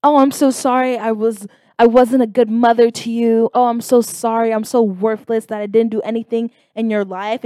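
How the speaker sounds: hammed-up self-pity; woman in distress. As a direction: imitate a mother wallowing in apology. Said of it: "woman in distress, like, the victimization of herself".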